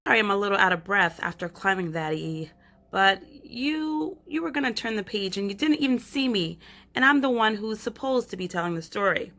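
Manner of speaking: put-on chatty, bright girl's storytelling voice; lively Stella, a shrinking girl talking to the reader. Girl narrator calling up to the reader, chatty. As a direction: pull the reader in like a kid telling a secret. Reads Stella's lines to the listener.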